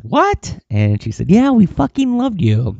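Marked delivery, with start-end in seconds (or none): 0.0-0.6 high startled yelp of disbelief; surprised. Retold or imitated. Told a company wants to hire him, shocked squeak. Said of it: "And I said". 1.3-2.8 high, louder, gushing mock enthusiasm; overexcited gush. Mimicking the recruiter gushing about him, hammed-up high excitement. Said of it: "Not like that".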